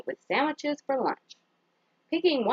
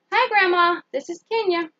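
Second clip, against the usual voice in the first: put-on higher and much louder, eager little girl; excited child on phone; 6 semitones higher, 5 dB louder than usual. Kenya calling her grandmother, eager and bright. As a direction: call out happily to grandma.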